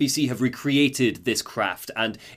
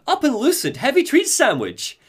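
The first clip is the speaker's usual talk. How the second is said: alien prisoner voice; 8 semitones higher than usual. Retold or imitated. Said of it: "And the prisoner says".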